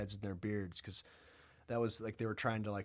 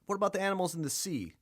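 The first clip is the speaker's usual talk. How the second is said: louder, much higher and fast; mock God; 8 semitones higher, 4 dB louder, faster than usual. God grilling Job, loud and high. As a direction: fire the question down from above.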